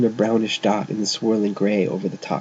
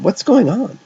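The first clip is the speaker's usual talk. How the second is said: high, loud demanding shout; 10 semitones higher, 5 dB louder than usual. A narrator's reading. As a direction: shout the question. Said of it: "she shouted".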